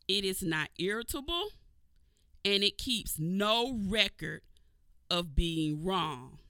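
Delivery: slow, measured scripture reading. Acted. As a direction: read each phrase slowly, with weight. Reads scripture slowly.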